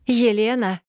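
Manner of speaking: calling again. A narrator's reading. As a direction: call the name to wake her. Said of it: "вновь позвал меня голос".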